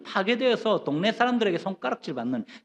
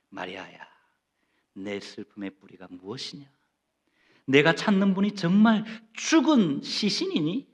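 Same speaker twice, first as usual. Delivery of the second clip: tender voice of Jesus; 3 semitones lower than usual. Retold or imitated. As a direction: gently ask her, like a comforting master. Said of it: "라고 지금 묻고 계실 거예요". (마리아에게 다정하게 묻는 예수님, 부드럽게)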